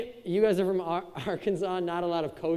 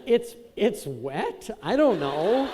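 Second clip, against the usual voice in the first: baffled answer; much slower than usual. Retold or imitated. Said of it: "I'm like".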